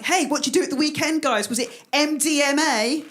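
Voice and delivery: over-keen mock student; bounding student. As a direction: burst in eager to be cool. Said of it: "go bounding into the student union bar".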